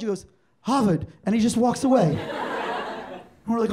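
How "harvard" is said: HARVARD with the middle blurred by a lisp. Retold or imitated. Kid Andy naming his college to friends, lisped. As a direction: say HARVARD so it could pass for Hartford. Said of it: "best use of a lisp ever".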